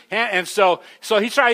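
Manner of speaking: ordinary delivery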